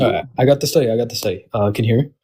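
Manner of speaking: phone audio, cutting out; a call that keeps dropping; over the phone. Real, not acted. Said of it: "I'm on my phone".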